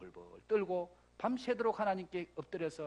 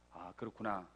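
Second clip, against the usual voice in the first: very low, soft murmur; hushed realization; 12 semitones lower, 8 dB quieter than usual. Acted. Joshua watching Moses pray and realizing, hushed. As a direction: let it sink in quietly.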